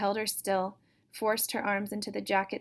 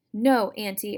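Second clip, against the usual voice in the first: louder pleading cry; 8 dB louder than usual. Acted. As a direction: beg Auntie in fear. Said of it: "Erica cried".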